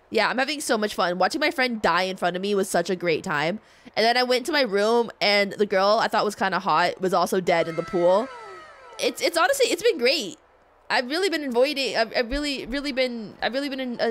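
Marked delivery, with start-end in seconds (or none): 0.1-10.4 sarcastic. Real, not acted. Sarcastic reply about deaths.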